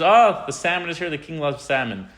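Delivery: mock delighted crowd; excited welcome. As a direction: cheer as the fish comes in. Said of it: "everyone says".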